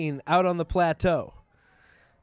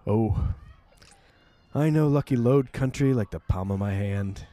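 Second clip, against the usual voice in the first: lightly voiced old Western hero; Charlton Heston; 6 semitones lower than usual. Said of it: "this is like the Charlton Heston".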